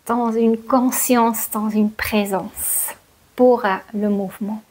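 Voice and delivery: measured meditation guidance with long pauses; guided yoga nidra. Real, not acted. Teacher settling listeners down for yoga nidra, guided meditation voice. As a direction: guide them unhurriedly into stillness, pausing between phrases.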